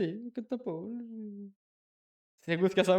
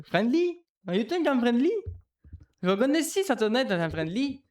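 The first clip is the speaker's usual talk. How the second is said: mock French-accented English, much higher; GSP's English; 7 semitones higher, 3 dB louder than usual. Imitating GSP's broken English from the Dark Rider clip, hammed-up. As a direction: ham up a fighter's broken English. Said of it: "G S P qui joue à Dark Rider".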